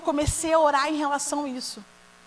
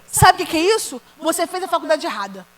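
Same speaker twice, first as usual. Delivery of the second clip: blunt verdict. Retold or imitated. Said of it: "Falei assim pra ele".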